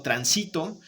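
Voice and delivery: transito with the middle syllable stressed. Shown as a demonstration. Teacher contrasting word meanings by stress, SI stressed. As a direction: say transito, tran-SI-to. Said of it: "que también se escucha bien".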